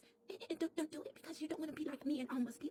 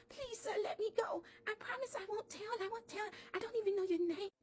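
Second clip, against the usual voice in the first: mild pleading; 5 semitones higher than usual. Retold or imitated. Doll begs the truck driver to let her go, mildly pleading. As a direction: beg the man gently to let her go.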